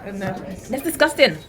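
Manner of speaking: slow, through sour candy; mouth full. Real, not acted. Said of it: "Is it terrible".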